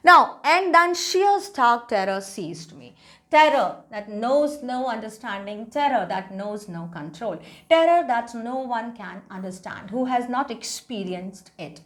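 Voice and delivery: slow, deliberate English reading; story read-aloud. A narrator's reading. Teacher reading a drowning story to class, slow read-aloud. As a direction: read each phrase out slowly for students.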